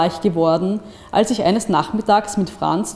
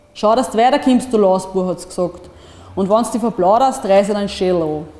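angry scolding; 3 dB louder than usual. Acted. Woman threatening the boy after the act, angry scolding. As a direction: chase the rascal off sharply.

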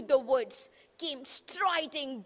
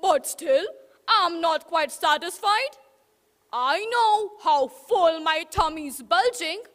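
louder, greedy wolf; 5 dB louder than usual. Acted. Wolf boasting of his full belly, louder. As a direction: relish it like an overfed wolf.

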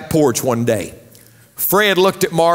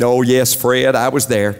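lightly voiced wife; 4 semitones lower than usual. Wife answers in joke.

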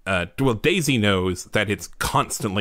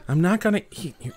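laughing; faster than usual. Real, not acted. GM laughs through Koopa line.

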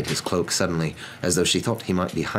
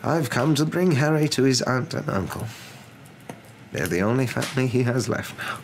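measured wizard voice, pitched up; wise wizard; 7 semitones higher than usual. A narrator's reading. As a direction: explain as a composed old wizard.

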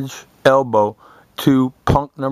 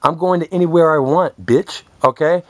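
retold shout; 6 semitones higher than usual. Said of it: "I said".

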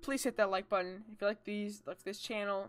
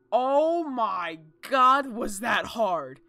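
exasperated relief; 9 dB louder, much slower than usual. Real, not acted. Relieved after beating a level.

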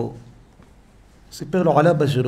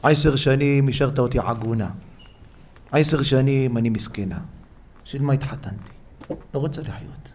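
tearful lament; 2 semitones lower, 6 dB quieter than usual. Retold or imitated. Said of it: "היא מתחילה לבכות".

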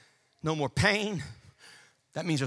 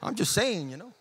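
under the breath; 7 dB quieter, faster than usual. Acted. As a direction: mutter a private gripe. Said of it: "under your breath, you're going".

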